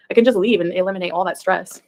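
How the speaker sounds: "can" lengthened and leaned on in I can just leave; stress on can. Real, not acted. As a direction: push the word "can" as the answer. Repeats the realization twice.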